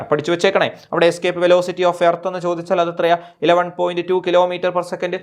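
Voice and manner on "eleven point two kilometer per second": slow dictation. Shown as a demonstration. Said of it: "dictating value slowly".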